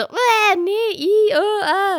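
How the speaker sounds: put-on high whiny child disgust sounds; kids grossed out. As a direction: mimic toddlers recoiling from the taste. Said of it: "Und die so".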